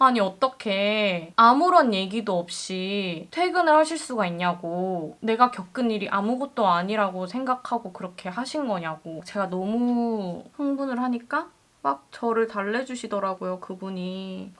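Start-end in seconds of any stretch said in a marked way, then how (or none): none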